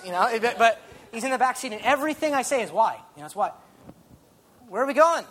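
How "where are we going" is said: mock toddler question. Toddler in back seat asking.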